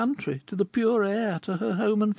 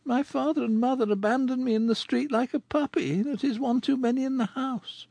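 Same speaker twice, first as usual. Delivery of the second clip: bitter. Acted. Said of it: "with bitterness".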